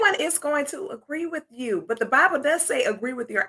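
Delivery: careful proper English with the country accent held back; proper, accent-suppressed speech. Real, not acted. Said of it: "now you're trying to do the proper thing and get rid of the accent".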